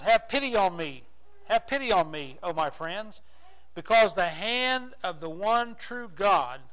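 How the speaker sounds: loud pleading cry for pity. Acted. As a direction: plead out loud like Job in his misery. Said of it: "He cries out here and says".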